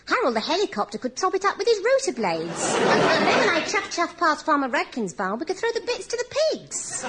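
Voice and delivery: high fast giggly delivery; laughing while speaking. A narrator's reading. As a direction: talk through the laughter. Gleeful plan, laughing.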